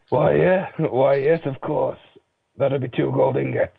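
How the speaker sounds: a hint of a friendly innkeeper; lightly voiced, obliging innkeeper. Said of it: "So I've got to do an innkeeper voice".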